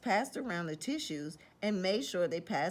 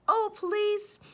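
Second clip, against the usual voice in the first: high, louder, snuffly begging; sniffling plea; 13 semitones higher, 6 dB louder than usual. Acted. Wolf with a cold begging the pig, sniffling. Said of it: "sniffled Big Bad".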